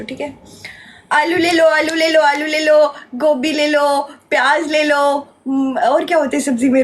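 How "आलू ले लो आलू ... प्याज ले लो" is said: sing-song street seller calling; vegetable vendor call. Pretend. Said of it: "okay, सब्जी बेच दो".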